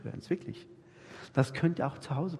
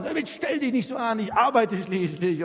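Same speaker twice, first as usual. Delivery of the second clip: irritated husband; 5 semitones higher than usual. Retold or imitated. Husband brushes off his wife.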